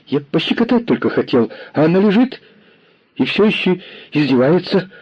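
put-on self-pitying kid working up to sobs; whining boy. A narrator's reading. Lame boy whining to the commissar, near tears. Boy whines toward a sob.

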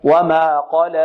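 وما قال with a plain open alif, no hamza; correct open alif. Shown as a demonstration. Teacher modelling the correct قال. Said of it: "بدون تقليل".

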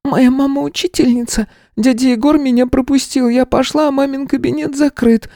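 put-on very high small child's voice; a little girl rattling off her story. A narrator's reading. Girl explains to the teacher about her mother. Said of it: "продолжала она".

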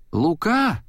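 a mother calling from the kitchen, high. A narrator's reading. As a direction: call his name through the house. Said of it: "позвала миссис Кастелан". (мать зовёт сына из кухни, высоко)

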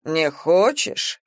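slow, rising mock surprise; surprised. Borovkov surprised the vagrant refuses prison, slow question. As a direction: act amazed she refuses. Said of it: "удивлённо переспросил Боровков".

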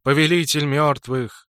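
grandly sung out, slow; pompous singsong. Acted. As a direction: hail the lord with pomp. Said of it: "с пафосом пропел он".

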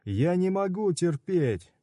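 can't bear the pain any longer; high pained outcry; agonized cry. Acted. Udo in agony.

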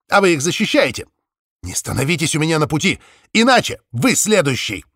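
eerie electronically distorted caller; a menacing, warped voice on the phone. Acted. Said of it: "неприятный, искажённый голос".

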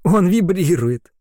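high, slow, thrilled exclamation; delighted. Acted. Carol feels the creature vibrate.

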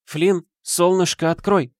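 high, gentle pleading mother; mother's voice. A narrator's reading. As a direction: coax the son to open up. Мать стучит в дверь сына. (мягкий голос матери)

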